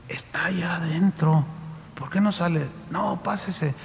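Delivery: keeping voice down in the house; quiet, near-whispered speech; hushed talk. Retold or imitated. Helper speaks in hushed voice.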